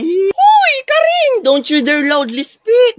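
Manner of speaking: very high, slow squeal with a hushed urgency; high squeal telling a friend not to speak loudly; squeaky hushed panic. Acted. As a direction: shriek it at her in a panic, high and tight. Turjang hushing her friend.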